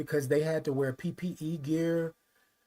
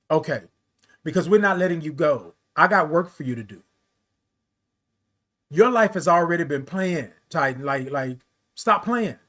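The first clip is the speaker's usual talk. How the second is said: God's voice; 5 dB louder than usual. Retold or imitated. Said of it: "what my God really said".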